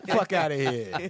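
slow, drawn-out New York dismissal; playful mock New York accent. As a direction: stretch it out like a New Yorker. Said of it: "If you're gonna do New York".

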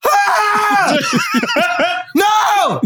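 high panicked screams, laughing through; frantic high yelling in panic; panicked shouting. Retold or imitated. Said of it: "convenience store in Korea".

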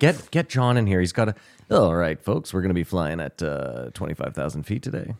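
lightly done airline pilot announcement; a hint of a captain on the intercom; pilot cockpit headset. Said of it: "really good at the pilot voice".

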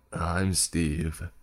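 nose pinched, nasal. A narrator's reading. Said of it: "in a nasally voice".

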